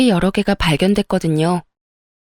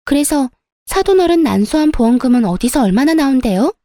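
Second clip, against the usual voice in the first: high, gloating I-told-you-so voice; triumphant sister-in-law; 5 semitones higher than usual. Acted. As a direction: crow at her with high, swooping pitch. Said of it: "엄청 의기양양한 목소리로".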